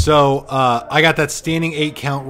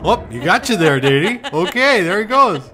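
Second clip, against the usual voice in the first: put-on Minnesotan accent; 6 semitones higher, 7 dB louder than usual. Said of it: "What are we doing with Minnesotan accent".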